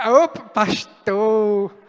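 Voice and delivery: mock pleading. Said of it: "E aí".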